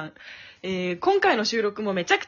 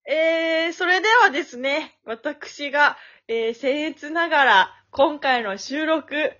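stiffly polite MC patter, slightly raised; tongue-in-cheek formal opening speech; mock-formal host; 3 semitones higher, 3 dB louder, slower than usual. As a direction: play the ceremonious emcee, stretching phrase endings. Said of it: "そういうめんどくさい感じでやるの？".

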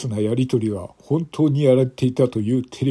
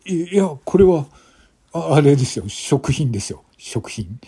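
nervous stammer; 3 semitones higher than usual. Acted. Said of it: "男は明らかに動揺している様子だ".

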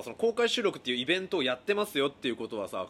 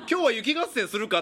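teacher voice; 7 semitones higher, 5 dB louder than usual. Retold or imitated. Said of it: "って先生側から言ってこない".

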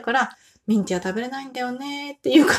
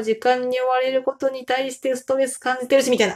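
all in one breath; 3 semitones higher than usual. Real, not acted. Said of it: "一息で言って、ちょっと疲れました".

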